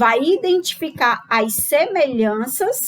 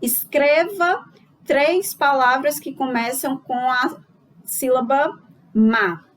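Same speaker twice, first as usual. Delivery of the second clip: reading out the task. Shown as a demonstration. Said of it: "eu peço pro meu aluno o seguinte".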